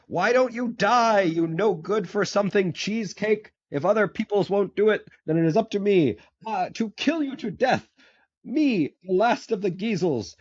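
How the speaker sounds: high, loud cartoon rage; a furious little cobbler ranting, shrill with fury; angry ranting. Storyteller voicing the bearded cobbler raging at Wimpy, high and loud. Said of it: "jumping up and down, angry".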